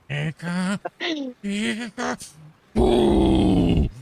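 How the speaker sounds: squeaky high Pika, then a loud boo; demonic Pikachu. Retold or imitated. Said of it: "sounds like a demonic Pikachu".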